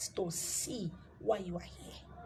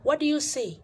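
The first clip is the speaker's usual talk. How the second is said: higher, louder challenge on What; louder demand; 5 semitones higher, 6 dB louder than usual. Shown as a demonstration. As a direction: demand the answer sharply. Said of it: "asks again".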